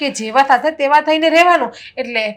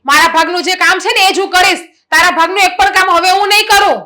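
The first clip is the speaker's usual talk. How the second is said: louder, raised flat refusal; elder sister-in-law refuses to do the bride's work, loud and firm; 3 semitones higher, 5 dB louder than usual. Acted. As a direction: lay it down loudly.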